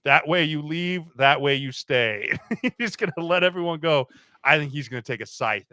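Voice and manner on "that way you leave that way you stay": mock stern boss. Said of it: "he's just gonna go".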